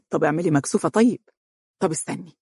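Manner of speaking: mild teasing, quick; playful. Acted. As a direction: tease her lightly. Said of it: "يقول بمرح".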